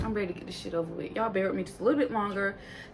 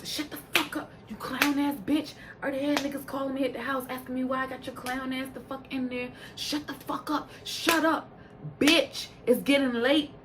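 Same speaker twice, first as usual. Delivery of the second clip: imitated angry rant, pitched higher; pissed off; 4 semitones higher than usual. Ballistic cussing out Big Lex on stage, pissed off. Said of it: "Ballistic is pissed off".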